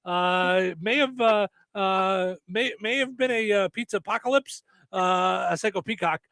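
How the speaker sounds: lightly voiced pilot report; mock cockpit radio report. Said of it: "give us your best imitation of a voice".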